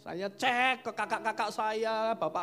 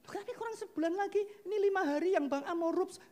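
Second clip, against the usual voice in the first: wife voice; 13 semitones higher, 4 dB louder than usual. Retold or imitated. Wife objecting, voiced by husband.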